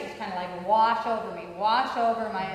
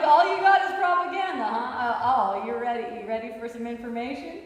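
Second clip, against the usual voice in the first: taunting retort; 6 dB louder than usual. Retold or imitated. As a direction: goad him, eager for a fight. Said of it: "I was like".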